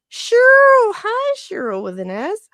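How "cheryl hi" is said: high, loud gasp of delight at a name; thrilled gasp; gasping greeting. Real, not acted. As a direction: greet her like a long-lost friend. Streamer greets viewer in chat.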